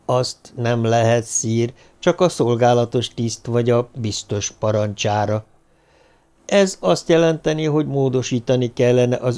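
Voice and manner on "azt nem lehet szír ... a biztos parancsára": cautious. Acted. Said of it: "Óvatosan mondta".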